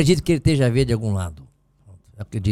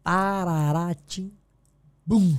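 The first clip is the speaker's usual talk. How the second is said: signature catchphrase; 2 semitones higher, 4 dB quieter, much slower than usual. Shown as a demonstration. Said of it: "como eu costumo dizer".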